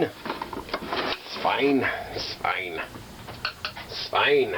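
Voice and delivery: a breathy whisper to himself, then a low murmur; calm yourself down under your breath; whispered it's fine. Real, not acted. Fixing wiring and forcing himself to stay calm, whispering. Self-soothing mantra while frustrated.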